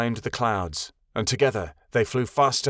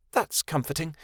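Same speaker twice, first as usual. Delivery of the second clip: grouchy; 5 semitones higher, 4 dB quieter than usual. A narrator's reading. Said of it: "Kia grouched".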